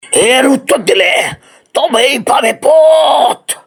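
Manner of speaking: slow, high, shouted decree; grand proclamation. Acted. Spirit declaring the reward for the answer, slow shout. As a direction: announce it like a final verdict.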